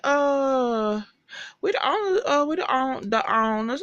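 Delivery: high, halting stammer; nervous high-voiced stammering; flustered Madison.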